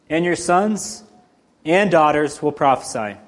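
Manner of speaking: steady, measured Bible reading; scripture reading. Acted. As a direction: read the passage with weight. Reads scripture passage aloud.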